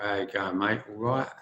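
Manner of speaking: imitating a Cockney greeting; casual mock London accent; lightly put-on London mate talk. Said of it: "he had a very London accent".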